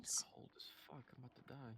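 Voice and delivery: soft whispered complaint; whispering. Real, not acted. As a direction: whisper it under breath.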